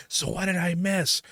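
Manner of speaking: slow, high, dopey mimicry of a chatty friend; whiny put-on voice, drawn out; mocking clueless friend. Mocking a friend who talked through the movie, dopey and slow. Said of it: "one looks over to me and they go".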